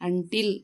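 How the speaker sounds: ಅಂಟಿಲ್ repeated alone with short "uh" first; correct "un-" pronunciation. Shown as a demonstration. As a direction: model ಅಂಟಿಲ್ starting "un", as a word to copy. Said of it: "ಅಂಟಿಲ್ ಅಂತೀವಿ".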